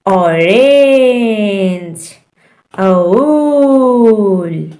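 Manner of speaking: "ऑरेंज" drawn out very slowly; short O examples. Shown as a demonstration. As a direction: stretch "ओल" as a teaching example. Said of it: "ओ का short sound है".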